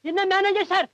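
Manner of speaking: angry retort. Acted. Heroine's father snaps back at the director, angry. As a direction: throw the title back at him in anger.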